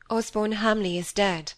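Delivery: usual speaking voice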